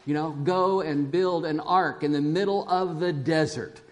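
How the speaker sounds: God's loud voice. Retold or imitated. Pastor voicing God commanding Noah, lightly booming. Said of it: "God says in that loud, audible voice".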